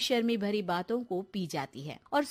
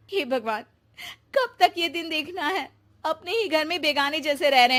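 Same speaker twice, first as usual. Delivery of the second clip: tearful lament; 4 dB louder than usual. Acted. Sonia alone, upset in guest room.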